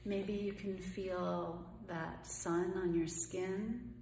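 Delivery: calm, unhurried meditation voice with long pauses; guided meditation. Acted. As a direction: gently guide them through each breath, leaving room between phrases.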